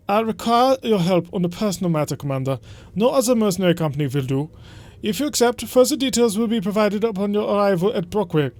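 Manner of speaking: a hammed-up German accent, stiff and formal; bad German accent. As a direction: read the noble's summons in a bad German accent. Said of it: "just explaining the bad German accent".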